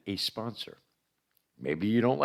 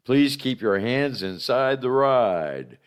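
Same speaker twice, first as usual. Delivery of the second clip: spooky ride narrator; 2 semitones higher, 5 dB louder than usual. Acted. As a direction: ride announcer voice, raised and loud. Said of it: "spooky ride narrator".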